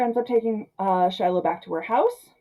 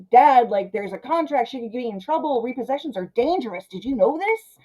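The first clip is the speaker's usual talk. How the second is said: put-on pleading teen daughter; 5 semitones higher than usual. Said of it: "even Shiloh's like".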